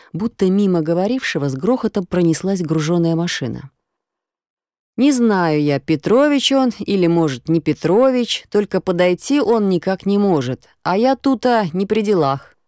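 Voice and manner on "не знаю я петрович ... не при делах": a shrugging stranger brushing her off; rough passer-by. Acted. Rough passer-by on the phone brushes off the girl. Грубоватый прохожий в трубке.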